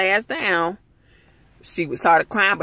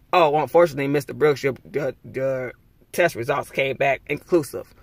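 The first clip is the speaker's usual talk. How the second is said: a hint of a cautious hospital worker, a bit lower; lightly voiced official; 4 semitones lower than usual. Hospital worker telling Mister Brooks his test is inconclusive, hesitantly. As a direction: read the bad news hesitantly, stumbling.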